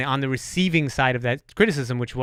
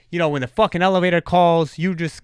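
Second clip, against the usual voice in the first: mock angry scolding, slightly raised; louder, half-acted telling-off; retold screaming; 3 semitones higher, 4 dB louder than usual. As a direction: imitate a firefighter chewing someone out. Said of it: "he starts screaming at me".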